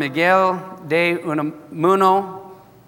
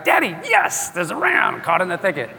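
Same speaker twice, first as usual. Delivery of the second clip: Isaac's voice pitched up with relief; excited Isaac; 2 semitones higher than usual. Acted. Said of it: "Isaac was very excited".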